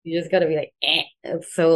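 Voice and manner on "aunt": Eh as the short a of ant; dumbed-down American vowel. Retold or imitated. Mocking how one must say aunt, short front-vowel Eh. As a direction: blurt aunt as a short Eh sound. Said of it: "you just really gotta dumb yourself down a bit".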